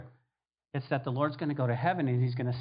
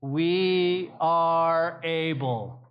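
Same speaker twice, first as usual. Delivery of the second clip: mock confident disciples; 4 dB louder, much slower than usual. Everybody together.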